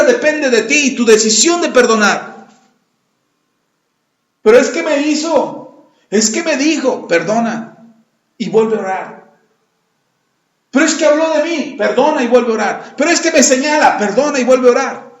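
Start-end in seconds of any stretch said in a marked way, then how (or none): 4.4-7.1 whiny excuse-maker. Retold or imitated. Mocking excuses of the unforgiving. 10.7-11.7 whiny excuse-maker. Retold or imitated. Mocking excuses of the unforgiving. 13.0-14.0 whiny excuse-maker. Retold or imitated. Mocking excuses of the unforgiving.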